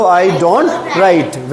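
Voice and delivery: slow, drawn-out model sentence; slow modelling. Shown as a demonstration. Teacher giving pupils the negative answer, slowly. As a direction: stretch it out for beginners to copy.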